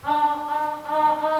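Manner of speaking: sung-out vowel drill, "a, a, a, a"; vocal warm-up. Shown as a demonstration. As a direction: demonstrate a vocal exercise on "a". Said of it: "buat latihan vokal".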